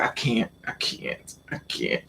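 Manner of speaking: breathless whispered refusal, slowed; retold whisper. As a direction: whisper it like you're too scared to say it aloud. Refusing him, scared and drunk.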